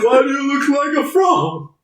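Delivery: high, put-on incredulous voice; mock taunt. Casey Jones questioning Raph's green face, mock taunt.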